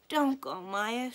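high, loud, pleading wail; a small girl begging her not to go. A narrator's reading. Little pupil wailing at her leaving friend. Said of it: "she wailed".

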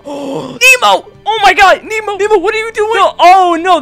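gasping, high-pitched alarm; frantic high yelps; panicked. Real, not acted. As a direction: cry out in sudden panic. Panics during the game.

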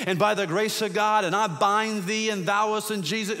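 mock-lofty prayer warrior, all flourish; showy prayer warrior. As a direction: ham up the fancy pulpit prayer. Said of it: "that prayer warrior in our family".

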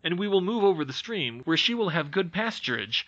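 a keen son pleading with his father; mildly voiced excited lad; eager boy Fritz. Fritz's long eager speech.

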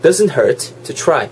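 "try" said as "chry", after a slow "doesn't hurt"; chu-like TR. Shown as a demonstration. Teacher modelling the phrase, chu-like TR. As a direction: soften the T of "try" toward "ch". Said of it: "try가 아니고 try라는 거".

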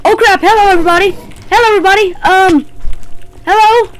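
loud, high, rushed panic greeting; yelped hellos under sudden threat; startled shouting. Real, not acted. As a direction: call out in alarm at a sudden crowd. Startled by mobs, calls out.

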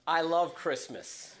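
slow, drawn-out I love Christmas; slow, savoured. Shown as a demonstration. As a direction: let love linger, unhurried. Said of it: "I always say the same thing".

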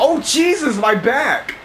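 sudden high yelp of pain; hit in the back. Real, not acted. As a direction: cry out as you get hit. Hit from behind by monster.

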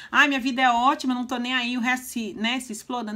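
mock a self-absorbed person shrugging off the world; mocking smug voice. Vlogger mocking people who live in a bubble, smug and careless. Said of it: "aquelas pessoas que vivem na caixinha".

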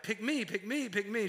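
mock eager pleading. Dad mocking his bids for daughter's attention, eager pleading. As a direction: beg to be picked, playfully overeager. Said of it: "I'm always trying too hard".

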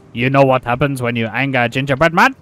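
low, controlled mock threat; angry gingerbread man. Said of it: "Very, very angry".

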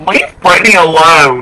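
dramatic plea. Acted. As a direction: plead loudly for her to be left alone. Quoting a famous plea.

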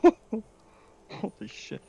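high, loud laughing disbelief; drawn-out laughing amazement; laughing in awe. Real, not acted. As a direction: laugh it out, stunned. Laughs at the height.

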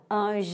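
ANGÉLICA with GÉ greatly stretched out; stressed syllable GÉ. Shown as a demonstration. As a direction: call Angélica, holding the GÉ long. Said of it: "subiu o G".

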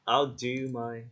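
contracted "I'll", landing on DO; stress on DO. Shown as a demonstration. Teacher fixing a student's intro line, DO stressed. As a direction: DO carries the weight. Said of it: "mình sẽ nhấn vào do".

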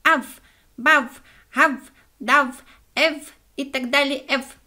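high, loud letters barked out slowly; the dog proudly reciting nonsense; eager sing-song recital. A narrator's reading.

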